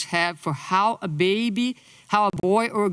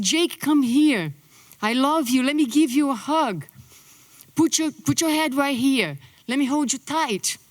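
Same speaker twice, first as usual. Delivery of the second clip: gentle with son; 4 semitones higher than usual. Retold or imitated. Mother to her son Jake, lightly voiced tender tone. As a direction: gently coax him close, lightly voiced. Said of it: "with more gentleness in my voice".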